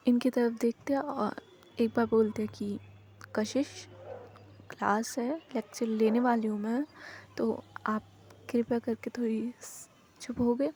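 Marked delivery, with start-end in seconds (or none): 3.4-10.7 a gentle, courteous request; politely. Acted. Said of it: "इतनी politely बोलती है ना".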